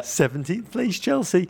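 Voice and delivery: muttered to oneself with slow relish; savoring mutter. Retold or imitated. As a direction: roll the words round like fine wine. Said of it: "I found myself muttering".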